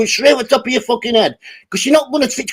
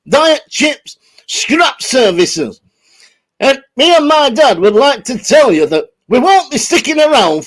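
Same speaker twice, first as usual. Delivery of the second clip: Impression. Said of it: "Dickie doing an impression of Harold Steptoe".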